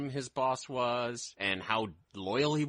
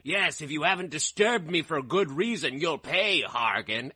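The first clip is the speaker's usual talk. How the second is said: loud, high threatening villain voice; menacing villain; 6 semitones higher, 5 dB louder than usual. Retold or imitated. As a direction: bark the threat at the underling. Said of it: "He's like".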